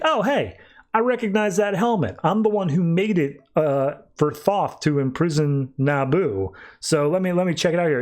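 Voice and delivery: Osiris voice. Retold or imitated. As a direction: ham up a chirpy smug god.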